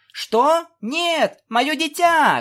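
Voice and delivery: panicked cry. Acted. Cadance's foal snatched away.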